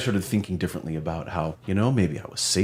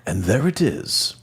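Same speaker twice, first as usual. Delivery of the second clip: nature documentary narrator; 3 semitones higher than usual. Pretend. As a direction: narrate it like a wildlife film. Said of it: "like some kind of British, you know, uh, nature documentary, uh, voiceover".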